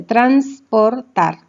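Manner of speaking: "transportar" slowly as trans, por, tar; syllable by syllable. Shown as a demonstration. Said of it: "formado por más de una consonante".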